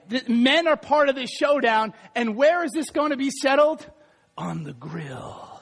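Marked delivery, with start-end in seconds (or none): 4.4-5.5 very low, hushed and drawn out; deep macho punchline. Acted. Preacher answering where the showdown gets settled, deep and slow. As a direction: drop deep and slow for comic gravity.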